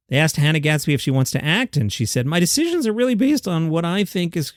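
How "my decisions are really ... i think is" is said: real voice crack partway through the sentence. Real, not acted. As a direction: voice breaks on "decisions", a pubescent crack. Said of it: "my voice cracked there like I was Greg Brady".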